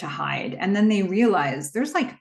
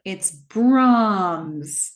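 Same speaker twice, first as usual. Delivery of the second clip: Malcolm's panicked exclamation; 6 semitones higher, much slower than usual. Retold or imitated. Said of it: "Malcolm's like".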